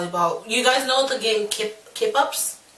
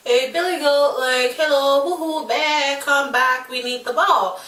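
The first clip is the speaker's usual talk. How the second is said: higher-pitched retold call; mildly exasperated "hello, come back"; calling after someone; 5 semitones higher than usual. Child to bully walking off with ball, calling out.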